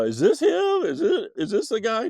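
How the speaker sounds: loud, very high, urgent questioning; frantic mom. Retold or imitated. Mom showing the child photo after photo, frantic. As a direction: imitate a mother firing off frantic questions.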